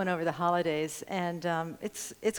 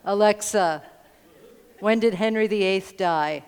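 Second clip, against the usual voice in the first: louder, deliberate spoken query; louder question to Alexa; 6 dB louder than usual. Shown as a demonstration. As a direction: ask the device clearly and a bit louder. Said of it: "you can also go".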